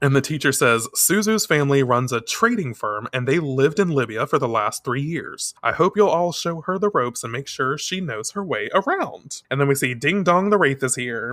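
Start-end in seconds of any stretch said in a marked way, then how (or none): none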